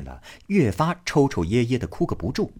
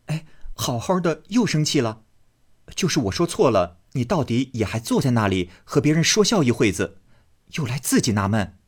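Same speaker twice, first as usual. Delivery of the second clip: quick, pleading, higher; coaxing young man; 5 semitones higher, faster than usual. Acted. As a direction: coax her out of the sulk. Baoyu coaxes Daiyu.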